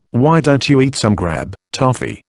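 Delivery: cheerful mumble through a mouthful; talking round bread and cheese, mouth full. Acted. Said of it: "he mumbled cheerfully, with his mouth full".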